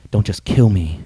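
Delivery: low, slow, deliberate offer; solemn self-sacrifice. Retold or imitated. Jesus offering himself for the people, solemn and low. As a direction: weigh each phrase, pausing before the last.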